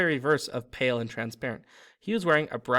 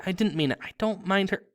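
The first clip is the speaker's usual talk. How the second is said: high, flustered protest; frantic; 6 semitones higher, 3 dB louder than usual. A narrator's reading. Girl takes back what she said to the poltergeist, frantically. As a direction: backpedal frantically, pitched up. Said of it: "Hermione whispered frantically".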